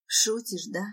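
mildly pleading, anxious question; lightly acted quaver; trembling voice. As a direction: ask with a touch of shaken disbelief. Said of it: "спрашиваю вибрирующим голосом".

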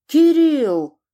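high, loud yelled name; shrill shriek. A narrator's reading. Skipin shrieking at his assistant Kirill, high and loud. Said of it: "перешёл на ультразвук Скипин".

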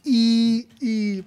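goofy game character. Retold or imitated. Describing a game character to friends, high cartoon voice. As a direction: chirp it like a cheerful cartoon NPC. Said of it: "y dice".

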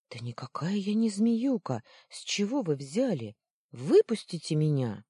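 loud pleading protest; indignant shout. Acted. Luna loudly denying the insult and begging release. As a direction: insist you're innocent and demand out.

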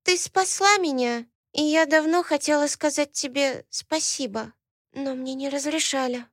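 put-on high childish voice, softening at the end; a small girl shyly saying thank you; shy little girl. Little girl thanks Alaena, shy childish voice.

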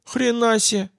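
astonished outburst; amazed exhale. A narrator's reading. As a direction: breathe it out in wonder. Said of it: "выдохнул Боб".

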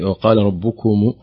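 slow, the dal echoed; recited example. Shown as a demonstration. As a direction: say وقال ربكم with a bouncing dal. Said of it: "وضع الدال في".

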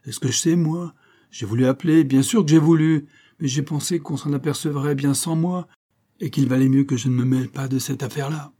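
gruff. Acted. Keely cornered by Stetson's questions, gruff and defensive. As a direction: snap back gruffly, cornered. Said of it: "répondit d'un air bourru".

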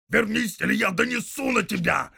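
loud, high orc yell; shouted order. Acted. Soldier yelling at the departing tracker, loud and high. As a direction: yell him back.

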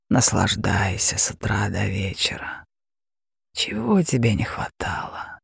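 a mocking beast purring at its prey; terrifying dragon. Dragon voice held.

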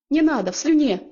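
громче и выше, верещание; заверещать в панике; испуганный визг. A narrator's reading. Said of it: "в голос заверещали ангел и демон". (ангел и демон в панике верещат)

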